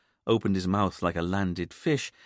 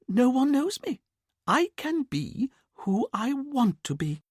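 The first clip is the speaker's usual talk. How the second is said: much higher, exhilarated voice; liberated mother; 10 semitones higher than usual. A narrator's reading. Mother telling her son she feels free, elated. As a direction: let the freedom ring out.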